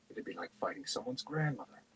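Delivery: soft, hushed aside; whispered. A narrator's reading. Sturm confides his reluctance to Tanis, hushed. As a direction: keep your volume right down. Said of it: "Sturm whispered".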